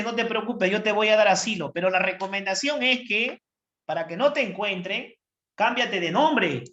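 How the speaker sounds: calm the frightened cell with a lifted voice; reassuring brain. Acted. (cerebro protector con voz algo más aguda)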